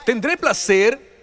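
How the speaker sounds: high, slow musing question; Sara wondering. Acted. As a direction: savour the word placer slowly. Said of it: "Y ella dijo esto".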